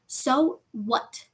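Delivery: understated shout. A narrator's reading. Boy dismisses friends' warning, mild shout. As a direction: throw the retort back at them. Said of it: "Harry shouted".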